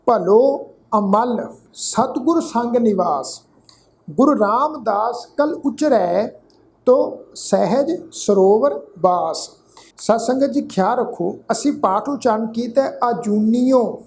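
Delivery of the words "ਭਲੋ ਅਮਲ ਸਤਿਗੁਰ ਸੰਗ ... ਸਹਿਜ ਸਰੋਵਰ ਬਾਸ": slow, phrase-by-phrase recital with long pauses; measured scripture recitation. Real, not acted. Teacher reciting gurbani to the sangat, slow and measured. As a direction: recite each phrase deliberately, letting it settle.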